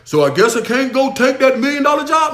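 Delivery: mocking someone turning down a million-dollar job; mock whiny excuse. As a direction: play the quitter who won't learn Spanish. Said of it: "Okay, but you gotta learn Spanish".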